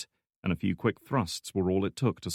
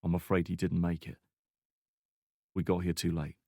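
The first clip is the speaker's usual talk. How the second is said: regretful; 2 semitones lower, 3 dB quieter than usual. Acted. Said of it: "regretting the news".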